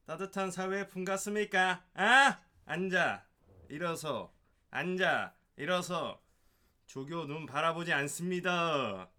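loud, high drill instructor shouting; korean military style. Acted. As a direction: bark orders like a boot camp instructor. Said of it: "이 조교의 목소리를 되게, 잘 표현해 주셨는데요".

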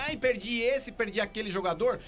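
mocking a whiny fan; hammed-up whining; whiny tantrum. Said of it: "pra quem tá com o chiliquinho".

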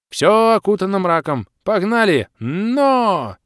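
loud, high giddy-up cry; old man urging on. Acted. Old Makhrusha urging their water steed forward, loud and high. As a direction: drive the steed on with a shout.

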